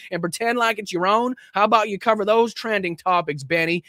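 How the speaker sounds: high, sneering mock of an angry politician; mocking Greene voice. Host reading Greene's furious tweet aloud, mocking voice. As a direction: read her tweet as a shrill caricature.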